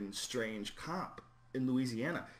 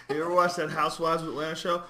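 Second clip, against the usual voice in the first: loud, high, laughing through the words; bursting with glee at the show; laughing excitedly; 5 semitones higher, 12 dB louder than usual. Real, not acted. Comic asking his friend about Atlanta Housewives, laughing loudly.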